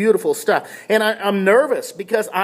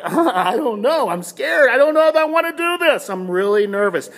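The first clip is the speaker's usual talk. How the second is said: mock-nervous, higher-pitched protest; scared hesitation; 4 semitones higher than usual. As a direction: act out a reluctant, nervous swimmer. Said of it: "and so I'm like".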